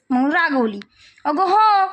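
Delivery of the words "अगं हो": high, loud eager yes; eager reply. Acted. Daughter eagerly answering her scolding mother, high and loud. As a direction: jump in to explain.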